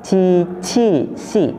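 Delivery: "Ci, ci, si" with sibilant hiss on each onset; slow, spaced "Ci, ci, si" with hissing starts; hissed consonants. Shown as a demonstration. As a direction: hiss through "Ci, ci, si", second "ci" puffed. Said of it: "Kita bisa ulang".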